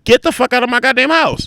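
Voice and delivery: heated story-telling outburst; retold angry order. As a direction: order her out, reliving the anger. Acts himself throwing her out.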